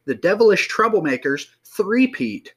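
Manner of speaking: put-on old-time radio announcer voice. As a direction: read it like a vintage radio host. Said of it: "Why are you talking like you're an old radio host?".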